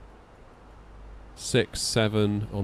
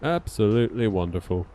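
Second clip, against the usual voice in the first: put-on Southern American accent; 7 dB quieter than usual. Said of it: "The southerly American accent".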